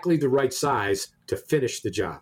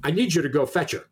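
bossy attitude; 3 semitones higher, faster than usual. Retold or imitated. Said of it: "it was certainly my attitude".

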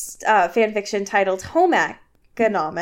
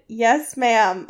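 raised, pointed reply; a little too loud. Acted. Bella repeats herself to Missus Smith, slightly too loud. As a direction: repeat it a touch louder than needed. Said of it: "a little louder than needed".

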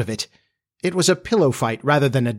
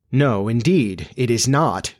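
firm weight on "No, indeed"; mildly emphatic; slower than usual. A narrator's reading. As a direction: deny it deliberately, leaning on "not". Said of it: "replied with frightful emphasis".

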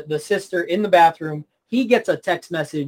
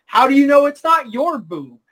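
higher-pitched mock indignation; acted quarrel; 4 semitones higher than usual. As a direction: argue back in mock outrage. Acted lovers' quarrel from the film.

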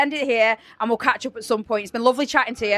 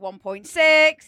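cool and casual; 4 semitones higher, much slower than usual. Retold or imitated. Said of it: "How cool you were, just like".

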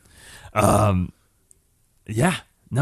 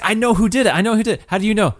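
put-on high-pitched excited old lady; 9 semitones higher, faster than usual. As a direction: voice a frantic old woman, high. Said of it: "She's like".

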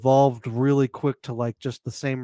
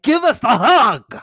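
loud, slow demanding yell; demanding shout; 10 semitones higher, 11 dB louder, slower than usual. Retold or imitated. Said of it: "And I was like".

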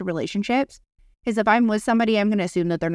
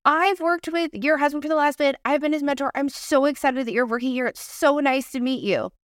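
lightly gushing, higher-pitched retold welcome; eager introduction; 5 semitones higher than usual. Mentor welcoming her mentee's girlfriend, mildly gushing. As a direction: act out an over-friendly hello, pitched up.

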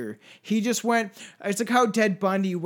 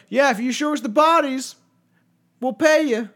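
mock Canadians; 6 semitones higher, 5 dB louder than usual. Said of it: "Canadians were like".

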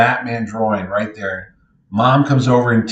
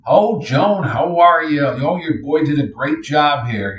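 put-on higher-pitched hello to an old acquaintance; imitated friendly greeting; 4 semitones higher, slower than usual. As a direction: imitate complimenting a friend's mother. Neil greets speaker's mom.

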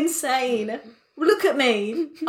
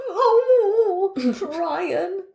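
calming voice. Retold or imitated. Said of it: "in my calming voice".

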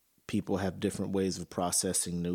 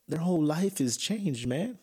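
much higher and louder, voice rising in outrage; real indignation breaking through, higher and louder; indignant outburst; 8 semitones higher, 3 dB louder than usual. Real, not acted. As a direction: let it burst out, fed up and upset. Outraged about the widowed father.

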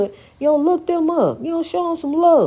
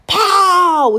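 exclaimed; 5 semitones higher, 5 dB louder than usual. Real, not acted. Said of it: "don't you feel it?".

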